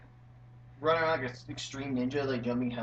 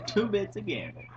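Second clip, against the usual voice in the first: higher, laughing grizzled prospector; 9 semitones higher than usual. Pretend. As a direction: crack up mid-prospector line. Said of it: "grizzled nineteen forties prospector".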